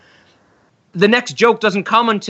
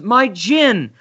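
mock Divine line; 8 semitones higher than usual. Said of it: "She goes".

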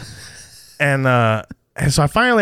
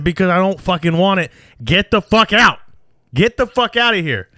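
retold angry shout; 4 semitones higher than usual. Husband ordering the solar salesman out, retold shout. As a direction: throw the salesman off the porch.

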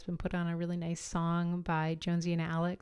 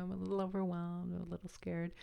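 timid admission; 7 dB quieter than usual. Retold or imitated. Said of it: "But I just said".

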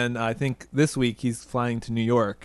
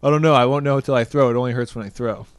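gruff, louder mock athlete quote; 6 dB louder, faster than usual. Co-host imitating the pitcher answering media about his shoulder, gruffly. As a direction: brush off the question gruffly. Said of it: "I'm gonna assume gruffly".

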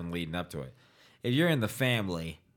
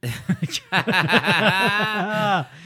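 airy giggle burst; high breathy laugh; 10 semitones higher, 8 dB louder than usual. Real, not acted. Laughs at drunk remark.

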